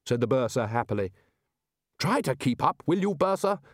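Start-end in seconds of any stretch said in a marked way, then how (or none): 2.0-3.6 weary. A narrator's reading. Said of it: "said Ridcully wearily".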